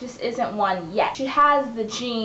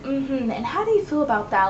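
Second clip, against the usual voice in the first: lightly imitated therapist; 2 semitones higher than usual. The speaker acting like a therapist to Liv, lightly put on. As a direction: probe with a mock-concerned question. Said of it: "acting like a therapist".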